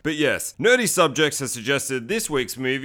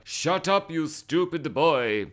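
badly faked German captain; terrible German accent; 2 semitones higher, slower than usual. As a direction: scold in a hammy, dragged-out German accent. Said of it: "That's a German accent, that was terrible".

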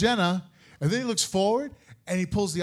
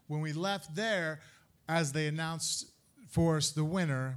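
ordinary talk

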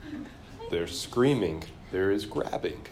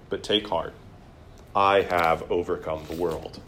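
calm, measured reading of Jesus; a gentle, steady Bible reading; scripture reading. Acted. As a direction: settle into Jesus' reassurance. Reads Jesus' reply.

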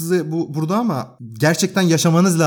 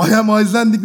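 imitating the Icelandic man; 6 semitones higher, 4 dB louder than usual. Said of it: "deyince şey dedim".

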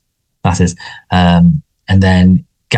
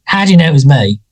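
mock old man; 6 semitones higher than usual. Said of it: "And he's like".

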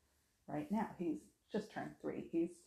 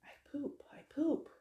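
put-on high little-kid voice; high-pitched mimicry of a toddler; imitated insistent toddler; 8 semitones higher than usual. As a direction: repeat it like a stubborn small child. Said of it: "he just kept saying".

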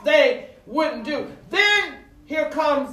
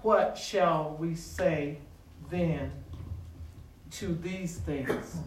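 scripture reading; 7 semitones lower, 10 dB quieter, slower than usual. Shown as a demonstration. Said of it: "Romans eight thirty-one and thirty-two says".

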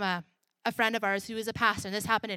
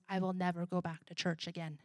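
muttered vow; 3 semitones lower, 5 dB quieter than usual. Retold or imitated. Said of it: "leaned over to his mom and says".

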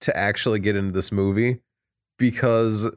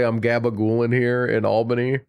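New York Italian accent. Shown as a demonstration. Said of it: "really bad New York Italian accent".

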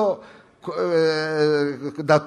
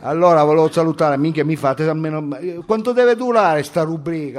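lightly voiced slangy student; brash student character. Student protesting the host's scolding, brash character. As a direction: protest like a cheeky street kid. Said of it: "Devo entrare nel personaggio".

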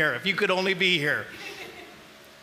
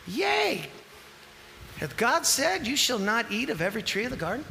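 serpent voice; faster than usual. Acted. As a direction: tempt her like the snake in the garden. Preacher voicing the serpent.

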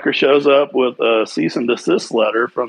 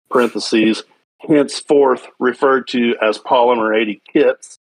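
reading a letter aloud. Real, not acted. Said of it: "I'm gonna read you the part".

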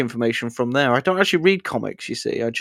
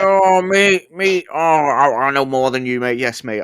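mock smug fan; 3 dB louder than usual. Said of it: "every fucking person that comes in".

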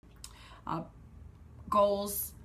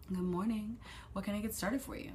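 softer, gentle drive-thru greeting; toned-down nice voice; 3 semitones higher, 4 dB quieter than usual. Shown as a demonstration. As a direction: bestow the nice voice calmly. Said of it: "tone it down a little bit".

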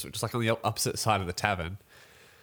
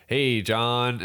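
put-on "Hey, John." in a light American accent; 3 dB louder than usual. Quoting a stranger in the pub toilet in a light American accent. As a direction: greet John like a mild American guy. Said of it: "I did that in an American accent".

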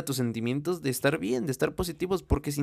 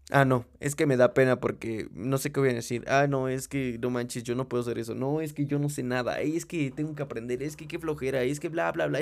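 whiny excuses; 2 semitones lower than usual. Retold or imitated. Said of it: "puros pinches pretextos".

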